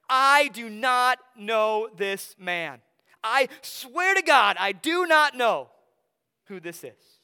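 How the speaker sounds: slow, loud, emphatic oath; desperate sworn denial. Acted. Peter swearing to the crowd he doesn't know Jesus, slow and loud. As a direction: swear it slowly and hard, every word weighted.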